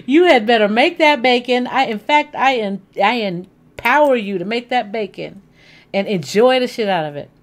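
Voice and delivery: playful command. Real, not acted.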